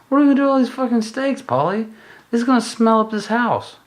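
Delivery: high, loud, fast hammed-up shriek; mock panic. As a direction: freak out at Pauly over the steaks. Acted panic over freezer steaks.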